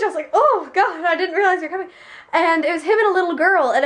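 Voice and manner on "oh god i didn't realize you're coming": higher, laughing mock surprise; retold startled reaction. Retelling being surprised by visitors, amused mock startle. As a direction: act out a flinch, amused. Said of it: "I, I flinched".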